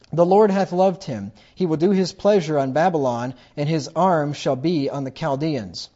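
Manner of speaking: scripture reading. Acted. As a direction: declaim the verse like the voice of God.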